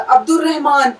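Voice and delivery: عبد الرحمن said abdur-rahman, lam silent, r doubled. Shown as a demonstration. Teacher showing students where the lam drops. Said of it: "لام کی آواز یہاں کیوں نہیں نکالی".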